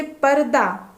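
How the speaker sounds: पर्दा said slowly, the half र sounded clearly between प and दा; slow teaching model of पर्दा with an audible र; slow clear demo. Shown as a demonstration. Teacher modelling for pupils where the र sounds, slow clear demo. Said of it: "इसका उच्चारण सुनाई देगा".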